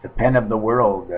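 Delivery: a hint of stage hypnotist; mock hypnotist. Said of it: "mock hypnotist with penguin".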